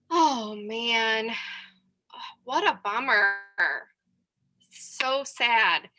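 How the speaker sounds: slow sympathetic sigh, with long pauses; empathetic. Shown as a demonstration. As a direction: draw it out and let it sink in. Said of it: "what are some empathetic statements".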